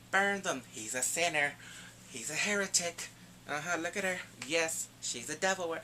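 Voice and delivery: lightly acted witch-hunter denouncing sinners; accusing zealot priest. Creepy priest accusing people of heresy, mock-zealous. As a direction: denounce them like a fanatical priest.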